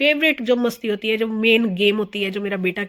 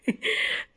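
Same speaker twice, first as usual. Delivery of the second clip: breathy laugh; 6 dB quieter than usual. Real, not acted. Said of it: "मेरे को इतनी हंसी आ रही थी ना".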